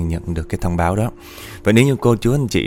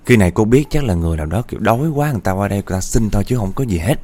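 animated, slightly raised storytelling voice; lively spooky storyteller; ghost story narration; 3 semitones higher than usual. A narrator's reading. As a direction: tell it like a suspenseful ghost tale.

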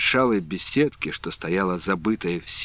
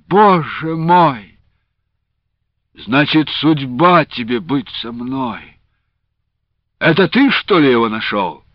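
hoarse; 5 semitones higher, 5 dB louder than usual. A narrator's reading. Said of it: "хрипло спросил он".

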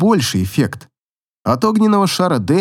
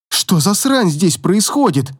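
trembling voice; 4 semitones higher than usual. Acted. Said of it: "дрожащим голосом".

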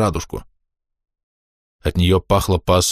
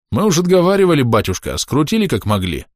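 eager excuse; 7 semitones higher than usual. A narrator's reading. Elder excuses himself to priest.

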